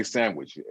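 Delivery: "sandwich" with no D, san-wich; everyday pronunciation. Shown as a demonstration. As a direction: say "sandwich" casually, dropping the D. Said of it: "and no D".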